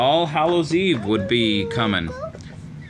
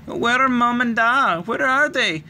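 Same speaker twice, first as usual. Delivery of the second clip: put-on sobbing child; 12 semitones higher than usual. A narrator's reading. Little girl sobbing to her sister during the fire. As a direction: cry it out frightened for Mum and Da. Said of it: "Ailish sobbed".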